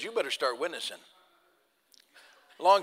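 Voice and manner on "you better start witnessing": low, soft, quiet command; a hushed, lower inner voice urging; Holy Spirit's prompting. Retold or imitated. Holy Spirit prompting the preacher while field dressing, low and soft. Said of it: "the Holy Spirit says".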